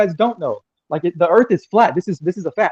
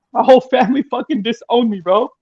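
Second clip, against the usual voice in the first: near tears, emotional; 4 semitones higher, 4 dB louder than usual. Real, not acted. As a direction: voice rising with real hurt, louder. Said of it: "sorry, I'm crying".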